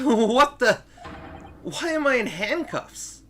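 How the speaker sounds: loud, high alarmed yelling; panicked loud confusion; shocked outburst. Acted. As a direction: cry out in disbelief at the cuffs. Waking up handcuffed.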